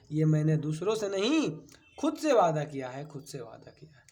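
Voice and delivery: a teacher reciting motivational lines to students; spirited recitation. Shown as a demonstration. Teacher reciting lines to students, spirited verse. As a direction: declaim the couplet with fervor. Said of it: "जोशीले अंदाज में चार line".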